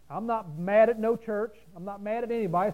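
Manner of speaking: deliberate, emphatic disclaimer; clear, measured insistence; very clearly. Real, not acted. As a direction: spell it out plainly and firmly. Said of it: "I say that very clearly".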